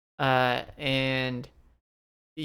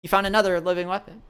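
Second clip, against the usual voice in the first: excited; 4 semitones higher, much faster than usual. Acted. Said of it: "she's like".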